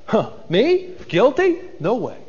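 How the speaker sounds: a hint of indignant Reuben brushing off guilt; lightly played huffy innocence; mock self-righteous denial. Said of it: "self-righteous".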